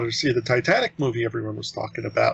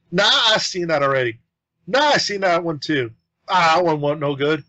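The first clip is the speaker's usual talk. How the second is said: loud customer; 4 semitones higher, 3 dB louder than usual. Retold or imitated. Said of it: "she's also quite loud".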